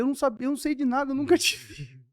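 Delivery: hurried worried protest. Retold or imitated.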